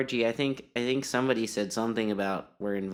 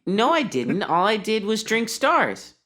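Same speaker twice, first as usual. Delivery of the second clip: high, loud, drawn-out protest; indignant denial; 10 semitones higher, 5 dB louder than usual. Acted. Monk accused of getting drunk, loud indignant denial. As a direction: protest your innocence loudly. Denies having got drunk, in character.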